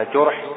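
جرح said "jurh", with a u; u vowel, not a, after the jim in جرح; damma on the jim. Shown as a demonstration. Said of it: "بضم الجيم لا بفتحها".

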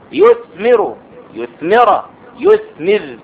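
يثمر said yuthmiru, yuthmira, yuthmir; endings varied. Shown as a demonstration. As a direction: run يثمر through its case endings. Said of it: "يمكن أن تقول".

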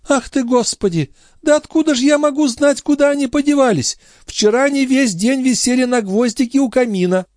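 put-on high, fast fussing old woman; mock-innocent old concierge. A narrator's reading. The concierge pretending not to know where the watch went, high and fussy. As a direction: play dumb, all fluster.

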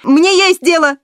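high squeaky yelp; boy squeaks back at his scolding stepmother. A narrator's reading. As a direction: pipe it up high like a startled boy. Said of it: "опять пискнул Родион".

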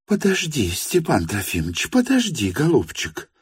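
put-on calm him down like a frightened child; coaxing like a child. Varvara Petrovna coaxes the sick Stepan Trofimovich like a child. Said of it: "уговаривала она его, как ребёнка".

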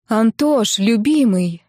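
guilty. Acted. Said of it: "виновато сказала девушка".

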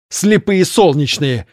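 slow mocking cry; shout. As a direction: call out in scorn. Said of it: "крикнула серая".

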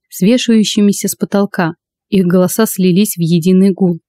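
usual speaking voice

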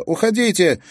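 loud, high cry to go away; shout. Acted. Girl shrugs off the policewoman's hand and shouts. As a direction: throw the order out as a yell. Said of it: "крикнула".

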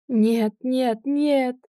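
rising, desperate cry; anguished shout. A narrator's reading. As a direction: scream it in grief. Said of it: "закричал во весь голос". (отчаянный крик)

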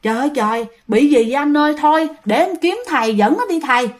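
mildly acted panicky pleading; retold frightened mother. Wife to husband about their daughter, acted alarm. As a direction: play a worried wife calling her husband. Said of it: "bác gái sợ lắm".

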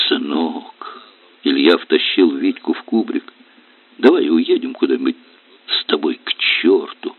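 gently dream aloud; tender father. Acted.

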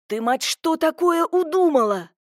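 near-shout at his wife; enraged, nearly shouting; almost yelling. A narrator's reading. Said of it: "почти проорал".

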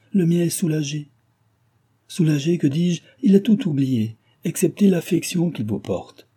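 lifted, affectionate reading; tenderly moved. A narrator's reading. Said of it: "reprit Cécile tendrement affectée".

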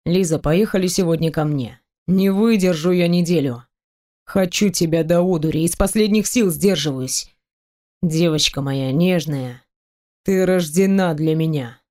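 low, even, seductive murmur; hypnotic voice. Acted. Seducing the heroine to come home, low hypnotic murmur. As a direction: lull her into giving in. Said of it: "своим гипнотическим голосом".

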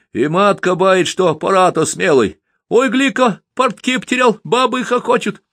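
put-on a sly kid tricking a drunk; high-pitched little boy fibbing; cheeky boy. A narrator's reading.

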